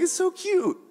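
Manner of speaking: high-pitched laughing coo; amused God. Acted. God to clueless believers, high giggly teasing. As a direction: squeal it fondly through giggles.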